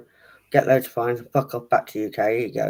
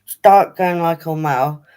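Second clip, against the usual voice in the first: friendly laddish bloke; 4 semitones higher, 3 dB louder, slower than usual. Pretend. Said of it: "a she-he".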